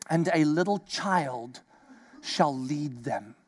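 low, slow, soft verse; hushed scripture reading. Acted. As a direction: let the words sink in quietly. Reads verse slowly.

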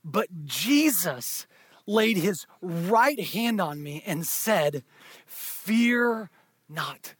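slow, tender reassurance. Acted. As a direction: lay the words down gently like a hand on a shoulder. Tender reading of Jesus' words.

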